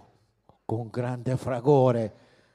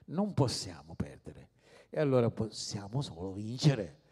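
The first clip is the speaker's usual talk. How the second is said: a hushed, breathy whisper of Non possiamo perdere; whispered answer; 5 semitones lower, 5 dB quieter than usual. Acted. Preacher answering the congregation's question in a sudden whisper. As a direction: drop to a secret whisper.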